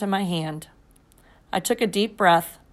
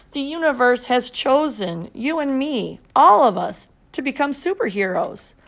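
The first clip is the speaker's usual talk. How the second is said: speech to citizens; 5 semitones higher than usual. A narrator's reading. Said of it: "as if he were making a speech".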